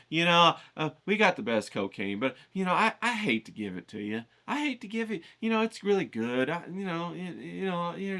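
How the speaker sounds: a hint of a reluctant street-corner dealer; hesitant drug dealer. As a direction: hem and haw like a dealer holding back the goods. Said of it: "some drug dealer standing on the corner saying".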